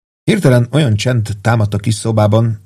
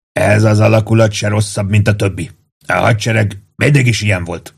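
measured, calm but emphatic statement; emphatic declaration. A narrator's reading. Pete regaining his calm, declaring emphatically. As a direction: pronounce it as a considered verdict. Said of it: "jelentette ki nyomatékosan Pete".

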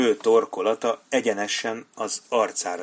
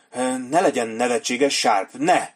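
frightened cry; 3 semitones higher, 4 dB louder than usual. Acted. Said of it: "kiáltott fel".

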